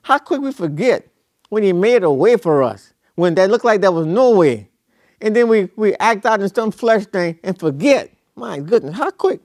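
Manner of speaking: rising preacher's refrain, hammered home; preaching. Acted. Preacher pressing the congregation, fervent preaching. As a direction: preach it, climbing each repeat.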